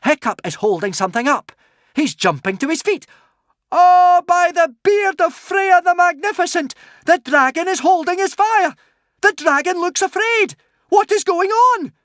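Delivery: high and loud, rising amazement; excited. A narrator's reading. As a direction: narrate it breathless with wonder. Excited watcher describing the battle.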